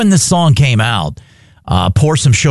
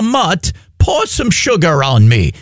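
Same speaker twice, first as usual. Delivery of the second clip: a lightly put-on, bad English accent; a clumsy English accent in a mock request; a hint of an English accent, barely there; 4 semitones higher than usual. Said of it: "That's the worst English accent I've ever heard".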